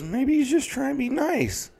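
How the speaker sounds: squeaky high imitation of a relative; high mock voice. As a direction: pitch way up, mock-innocent. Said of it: "he goes".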